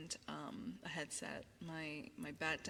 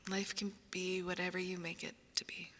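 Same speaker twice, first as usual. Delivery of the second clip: whispering. Acted. ASMR whisper.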